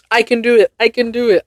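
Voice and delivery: high, insistent self-encouragement; determined pep talk. Real, not acted. Woman hyping herself up after failed attempts, determined. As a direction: psych yourself up for another try.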